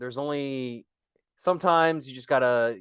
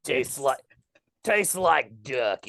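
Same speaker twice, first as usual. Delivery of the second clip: The speaker; 2 semitones lower, slower than usual. Pretend. Guest after kissing the hand, mock Cockney. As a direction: savour it in fake Cockney. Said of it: "Cockney accent".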